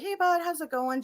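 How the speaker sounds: put-on high, casual hello to a little kid; sing-song friendly check-in; friendly greeting. Voices her greeting to ghost boy.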